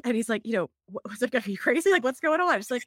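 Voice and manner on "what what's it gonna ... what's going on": higher-pitched imitation of someone freaking out; retold freak-out. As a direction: act out his alarm, voice jumping up. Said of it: "he's freaking out".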